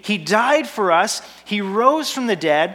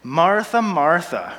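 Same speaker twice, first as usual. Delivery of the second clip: a hint of condescension, calling her name; mildly patronizing, as if to a fussy child; condescending Jesus; 3 semitones lower, slower than usual. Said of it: "I put on this kind of condescending voice for Jesus".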